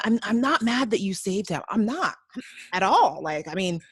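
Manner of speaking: imitating unconvincing denial; hedging, over-insistent mock reassurance; hiding being upset. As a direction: protest a bit too much that it's fine. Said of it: "but trying to hide it".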